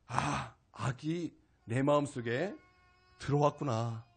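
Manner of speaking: a quiet dawning inside; hushed slow realization; slow, soft realization. Real, not acted. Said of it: "깊이 깨닫게 되었습니다".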